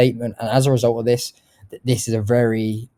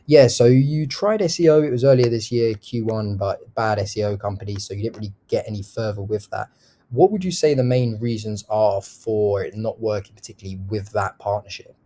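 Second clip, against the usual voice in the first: gently inquisitive, empathetic summary to a prospect; curious, caring tone. Shown as a demonstration. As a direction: mirror their words back with care and curiosity. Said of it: "sort of curious, inquisitive, but also caring and empathetic tone".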